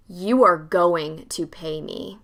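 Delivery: slow, low menacing threat. Retold or imitated. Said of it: "Like, the most".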